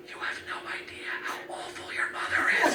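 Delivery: whispered, laughing secret. Retold or imitated. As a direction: whisper it to the baby. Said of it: "I whispered in her ear".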